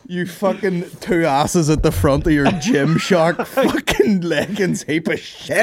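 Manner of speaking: high, loud, slow hammed-up insult; mock rant. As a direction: spit out each insult, loudly. Mock roasting online haters.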